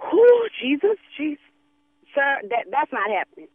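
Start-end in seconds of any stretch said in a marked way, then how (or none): 0.1-1.4 exasperated outcry. Acted. Exasperated cry to Jesus.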